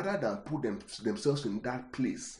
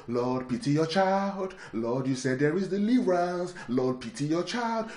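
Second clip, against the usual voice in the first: mock pitiful song; 4 semitones higher than usual. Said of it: "compose one song out of pity".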